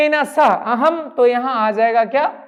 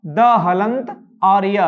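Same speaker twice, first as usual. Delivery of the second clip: slow spelling out; 3 semitones lower, much slower than usual. Shown as a demonstration. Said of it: "अद्य कैसे लिखते हैं?".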